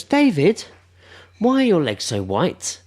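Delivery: put-on high, loud drunken call; drunk woman voice. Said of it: "He goes".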